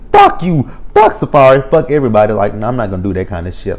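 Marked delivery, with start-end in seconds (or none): 0.1-2.3 mock angry outburst. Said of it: "get worked up and be like".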